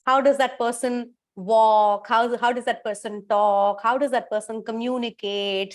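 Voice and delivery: measured instructions with long pauses; guided visualization. Acted. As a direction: guide listeners steadily into imagining someone.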